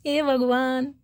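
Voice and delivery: laughing oh god. Real, not acted. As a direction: dissolve into laughter while saying it. Laughing exasperation.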